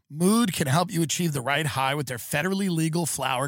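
even sponsor-read voice. Acted. Host selling THC products to listeners, scripted ad read. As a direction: read it out as podcast ad copy.

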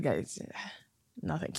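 uncomfortable refusal. Retold or imitated. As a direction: act out quietly backing out of a hug. Acts out refusing hugs from others.

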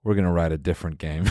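lightly voiced low grandpa. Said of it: "He's like".

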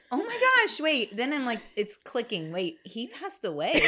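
high shocked gasp of realization; surprised realization. Retold or imitated. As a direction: act out the sudden realization.

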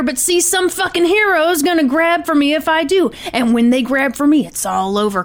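emphatic hostage-taker's monologue, lightly acted; animated read of a gunman's threats; Tony. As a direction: insist that this is no bluff, without shouting. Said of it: "Then Tony takes back over".

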